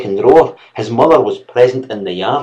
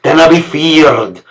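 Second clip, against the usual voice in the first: slow, louder contemptuous repeat; louder slow scorn; 4 semitones higher, 5 dB louder, slower than usual. A narrator's reading. Master sneering at the servant's fear. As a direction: press the words harder the second time.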